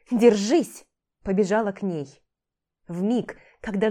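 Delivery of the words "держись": loud yell, hold on. Acted. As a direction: yell it out running. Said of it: "С воплем".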